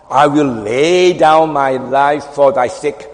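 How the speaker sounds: boastful vow. Acted. Preacher acting the disciple's vow to Jesus, boastful. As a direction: declaim it slowly and grandly. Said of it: "that boasting cock".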